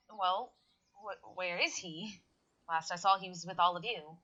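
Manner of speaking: mic cutting in and out; choppy dropping voice; glitching audio. Real, not acted. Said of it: "You keep cutting out".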